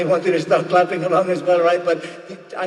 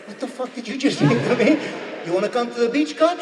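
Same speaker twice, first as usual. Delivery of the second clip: higher-pitched mock outrage; angry grandmother; 5 semitones higher than usual. Grandmother reacting to mother's apparent insult, mock angry. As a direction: act out an affronted, angry grandmother. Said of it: "why she looks angry".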